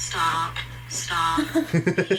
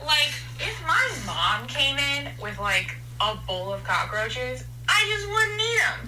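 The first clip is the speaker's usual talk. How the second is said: gamer voice; 4 semitones higher than usual. Acted. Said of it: "you're doing your gamer voice".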